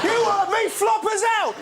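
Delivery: high, bullying yell; demanding shout. Acted. Rude baby ordering mother to feed it, high shout.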